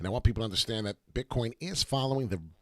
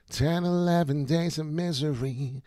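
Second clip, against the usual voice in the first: slow, higher, put-on gloomy delivery; theatrical slow lament; dramatic drawn-out voice; 7 semitones higher, 4 dB louder, slower than usual. Shown as a demonstration. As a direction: stretch it out like a doom narrator. Repeating phrase, second take dramatized.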